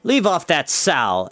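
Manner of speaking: deliberate haughty order; slow command. Acted. Prince commanding the boy, slow and haughty. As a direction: lay down the order slowly. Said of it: "Elendir commanded".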